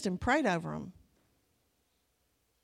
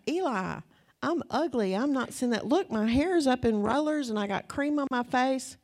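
higher, louder, playful protest; mock protest; 5 semitones higher, 3 dB louder than usual. Wife laughingly refusing her husband, higher mock protest. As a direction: squeal it like you're embarrassed.

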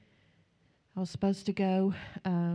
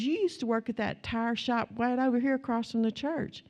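higher-pitched retold excitement; mildly acted amazement, pitch raised; freaked-out recognition; 5 semitones higher than usual. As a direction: imitate an excited kid placing someone. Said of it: "And he's freaking out".

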